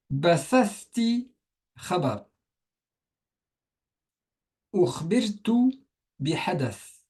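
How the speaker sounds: careful slow model reading of Arabic words; teacher reading Arabic phrases slowly for the class; slow reading aloud. Shown as a demonstration. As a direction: read each word slowly for the learners to repeat. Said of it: "ici je les lis".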